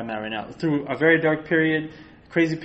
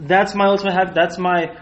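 talking while chewing popcorn; munching popcorn; 2 semitones higher, 4 dB louder than usual. Real, not acted. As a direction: mouth full of popcorn. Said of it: "I'm eating popcorn right now".

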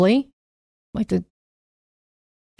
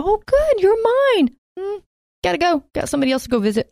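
high, breezy, offhand voice of a God who won't stay; God voiced as leaving; 10 semitones higher, faster than usual. Speaker voicing a God who saves then leaves, high and breezy. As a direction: toss it off high and light, already halfway out the door.

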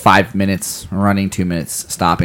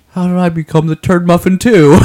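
higher, imitating an indignant little girl; mock distraught kid; 9 semitones higher, 4 dB louder than usual. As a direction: play the outraged daughter, hammed-up. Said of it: "totally distraught".

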